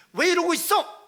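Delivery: sharp high scolding question; rebuking. Acted. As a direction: scold them loudly. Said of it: "라고 책망하는 언어가 아닙니다". (높고 크게 꾸짖듯이)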